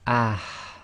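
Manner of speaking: "ah" with a strong push of air from mid-throat; forceful ha. Shown as a demonstration. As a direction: breathe hard through "ah". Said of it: "a lot of air should come out".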